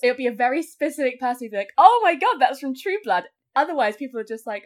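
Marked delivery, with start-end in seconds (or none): 1.8-3.2 excited squeal. Retold or imitated. Excited fan recognizing costume.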